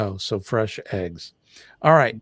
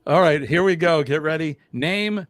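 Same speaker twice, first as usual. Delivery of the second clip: upbeat host voice, higher pitch; game show announcer voice; 5 semitones higher, 4 dB louder than usual. Pretend. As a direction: kick off the round like a quiz host. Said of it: "when you do that game show voice".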